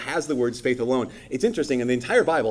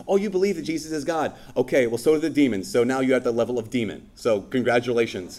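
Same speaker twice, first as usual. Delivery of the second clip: light sarcasm. Retold or imitated. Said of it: "Saint James is like".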